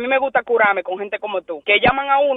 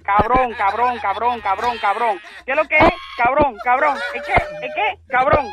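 heated, repeated insults hurled back; angry name-calling; slower than usual. Real, not acted. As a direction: spit out cabrón over and over. Victim keeps yelling insults.

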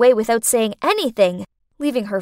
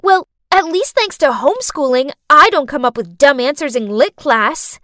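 snapping back; 3 semitones higher, 5 dB louder than usual. Acted. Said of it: "I snapped back".

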